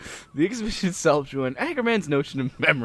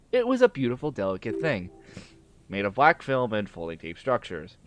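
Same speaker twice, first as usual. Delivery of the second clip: measured character reading, mostly lower; story read-aloud; 4 semitones lower, faster than usual. Acted. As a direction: read the dialogue aloud, dropping low at phrase ends. Reads the game's dialogue aloud.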